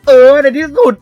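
loud, high cry of relief; triumphant shout. Real, not acted. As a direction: scream with joy at surviving. Finally survives.

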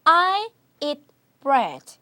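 very slow, drawn-out model sentence; slow demo. Shown as a demonstration. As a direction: say each word slowly for the class. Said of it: "예를 들어서 제가 먼저 시작을 하는 거예요".

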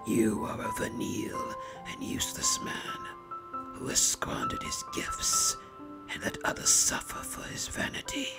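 hushed, dry whispered condemnation; calm whisper. A narrator's reading. Masked visitor condemns the baron in a calm whisper. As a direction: whisper the judgement with cold composure. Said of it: "the visitor said calmly".

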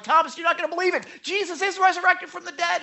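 high, loud, fast rush of news; breathless good news. Retold or imitated. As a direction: blurt out the amazing news. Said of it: "they're like".

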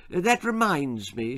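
light, sweet lilt; sweet interjection. Acted. Missus Deacon raising her hand at the meeting, sweetly. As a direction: chime in sweetly. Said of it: "she said sweetly".

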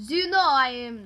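loud Russian attempt that slips toward French; muddled Russian accent. Shown as a demonstration. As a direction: have a shaky go at a Russian accent. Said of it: "Russian accent".

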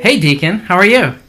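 loud, cheery hello into the phone; booming phone hello; loud phone greeting. Real, not acted. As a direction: call out the greeting over the line. Answering a phone call loudly.

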